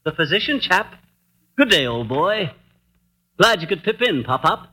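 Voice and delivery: mock Bond Street English; affected British accent, brisk and bossy; put-on British accent. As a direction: ham up an English gentleman. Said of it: "this Bond Street brogue is his idea of hospitality".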